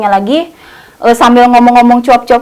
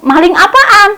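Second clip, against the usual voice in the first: surprised question; 9 semitones higher, 5 dB louder than usual. Retold or imitated.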